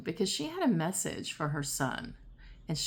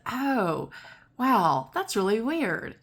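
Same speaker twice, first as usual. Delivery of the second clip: higher and louder, bursting with surprise; surprised laugh; 4 semitones higher, 5 dB louder, slower than usual. Retold or imitated. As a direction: blurt it out amazed, half laughing. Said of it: "And I started laughing".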